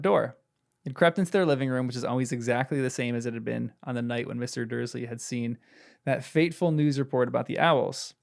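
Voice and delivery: measured read-aloud from a novel; story narration. A narrator's reading. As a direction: read the passage out evenly to a listener. Reads the book aloud.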